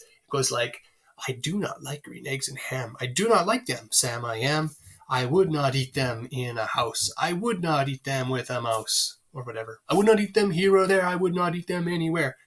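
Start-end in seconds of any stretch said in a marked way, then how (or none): 1.3-9.2 sing-song "I DO not LIKE green EGGS and HAM"; iambic pattern. Shown as a demonstration. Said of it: "It says like this". 9.9-12.4 higher, bouncing chant of "I WOULD not EAT them HERE or THERE"; sing-song, every second syllable of "I would not eat them" hit; iambic pattern. Shown as a demonstration. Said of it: "It says like this".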